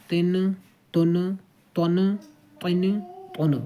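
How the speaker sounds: تن with the نون dragged out and held; wrong tanween demo. Shown as a demonstration. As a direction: stretch the نون of تن like a pupil's mistake. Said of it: "تو یہ انداز جو ہے غلط ہے". (تن کو نون کھینچ کر غلط پڑھنا)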